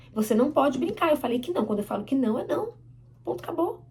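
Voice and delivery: acted firm mother, pitch jumping at the end; firm parental no. Mother refusing the lip gloss to her child, firm. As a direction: lay down the rule and close the matter.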